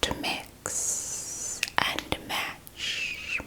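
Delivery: slow, lingering whisper; slow drawn-out whisper. Shown as a demonstration. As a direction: stretch it out slowly, whispered. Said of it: "whispering with soft spoken".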